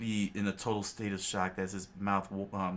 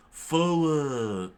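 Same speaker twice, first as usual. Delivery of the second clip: loud, raised, drawn-out battle call; called command; 6 semitones higher, 7 dB louder than usual. A narrator's reading. Pirate orders the attack, loud raised call. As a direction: call the charge, letting it fall away.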